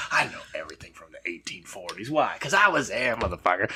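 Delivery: hushed, secretive whisper; playful conspiratorial whisper; mock whisper. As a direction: whisper it like a sly confession. Joking about reincarnated person.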